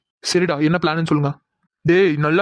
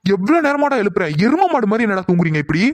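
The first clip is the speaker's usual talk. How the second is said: higher-pitched, exasperated complaint; exasperated scolding; 3 semitones higher than usual. Acted. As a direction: scold sleepyheads with rising exasperation. Scolding friends who will not wake. (எரிச்சலோடு திட்டுதல்)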